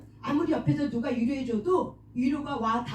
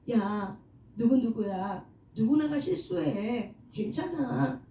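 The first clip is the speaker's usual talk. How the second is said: reassuring self-talk; 2 semitones lower than usual. Shown as a demonstration. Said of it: "자기 자신에게 어떻게 해줘요? 용기를 주고 복돋아 주는 거죠".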